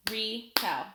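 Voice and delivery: "Retell" in two separate beats, Re, then tell; split into syllables. Shown as a demonstration. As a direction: clap out "Retell" with a gap between syllables. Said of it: "I'll clap it out".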